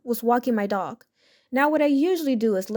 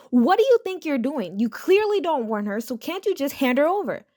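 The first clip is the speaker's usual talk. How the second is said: hammed-up angry accusation; mock shout; 4 semitones higher than usual. Entitled mother yelling at the teen, mock shout. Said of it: "The entitled mother then shouts at me".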